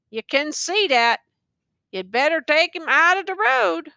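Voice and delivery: tattered soldier warns the youth of the battery. Acted. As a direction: warn the youth, lightly voiced.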